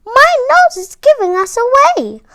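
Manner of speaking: hammed-up frightened reindeer; panicked cry. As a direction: cry out trapped by the monster. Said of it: "cried Rudolph".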